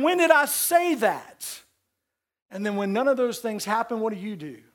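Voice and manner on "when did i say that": voicing God. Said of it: "God's looking around saying".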